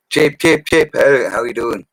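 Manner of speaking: high, loud calling out a mate's name; mock cheery greeting. Irish boys hailing him on site, loud and cheery. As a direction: hail him like an old workmate across the site.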